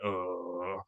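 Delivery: hungover groan. Retold or imitated. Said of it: "I was like".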